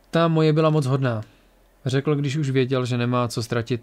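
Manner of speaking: steady storyteller reading aloud; story narration. A narrator's reading. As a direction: read the chapter like an audiobook narrator. Reads his story aloud.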